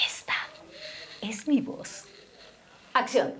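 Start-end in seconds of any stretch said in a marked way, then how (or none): 0.1-2.1 soft, with a dramatic pause; quiet, halting declaration; hushed contrast. Shown as a demonstration. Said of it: "volúmenes altos, bajos, ritmos rápidos o lentos".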